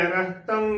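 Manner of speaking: ਰਹਿਤੰ as "rehtan", nasal ending; correct pronunciation. Shown as a demonstration. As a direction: finish ਰਹਿਤੰ on the nasal without a g. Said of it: "ਬੋਲਣਾ ਹੈ".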